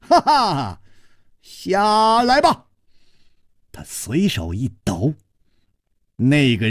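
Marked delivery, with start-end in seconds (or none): 0.0-2.7 laughing scold. A narrator's reading. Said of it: "他笑斥道".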